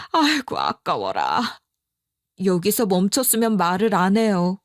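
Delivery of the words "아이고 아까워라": much lower, slow put-on old woman's lament; grumbling mother-in-law. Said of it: "이렇게 답하시더라고요". (훨씬 낮고 느리게 아까워하는 시어머니 목소리)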